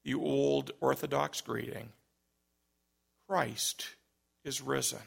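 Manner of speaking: softly, simply, no force; a calm old priest just stating it; simple quiet greeting. Retold or imitated. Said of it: "simply said".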